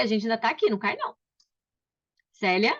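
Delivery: ordinary delivery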